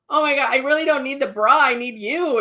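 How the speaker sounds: high, fast, tearful burst of relief; crying out in sudden relief and gratitude; tearful outburst. Retold or imitated. Client crying to the bra fitter who offers help. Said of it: "I just started crying".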